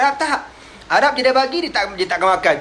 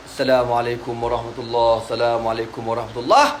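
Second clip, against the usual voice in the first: prayer greeting; 5 semitones lower than usual. Retold or imitated. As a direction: end the prayer gently and low. Prophet ending the prayer.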